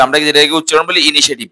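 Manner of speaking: "ইনিশিয়েটিভ" as i-ni-she-tiv; common mispronunciation. Shown as a demonstration. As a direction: merge shi-e into she in ইনিশিয়েটিভ. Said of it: "ভুল উচ্চারণ". (ভুল উচ্চারণে "ইনিশিয়েটিভ")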